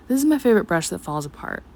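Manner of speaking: usual speaking voice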